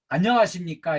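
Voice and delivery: lightly brightened, polite greeting; bright greeting. Shown as a demonstration. Instructor shows trainees how to greet customers, bright voice. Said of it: "밝은 목소리로".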